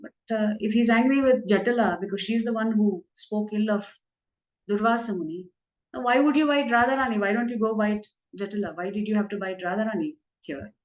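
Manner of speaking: a hint of a coy lady asking the snake; Krishna as Vindhyavali. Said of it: "And so Vindhyavali says".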